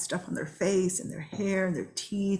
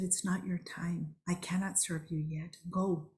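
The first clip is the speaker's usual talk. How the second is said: hushed grandmother; 7 dB quieter than usual. Retold or imitated. Grandmother voiced in dream.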